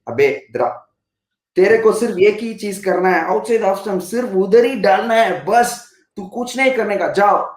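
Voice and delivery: rapid-fire, bossy Hindi banter; blunt street Hindi. Retold or imitated. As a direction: rattle it off fast like a no-nonsense coach. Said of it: "So this is the way you talk to him".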